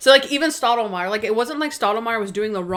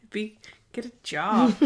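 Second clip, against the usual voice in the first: whispered mock grumble. Podcaster whispering Monk's line about the hippie. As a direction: breathe it out, no voice. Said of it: "It's like".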